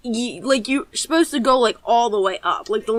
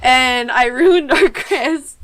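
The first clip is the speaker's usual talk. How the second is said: laughing; 2 semitones higher, 5 dB louder, much slower than usual. Real, not acted. Laughing at driving mishap.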